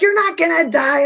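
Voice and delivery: lightly voiced brush-off; imitating Jason. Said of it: "And Jason's like".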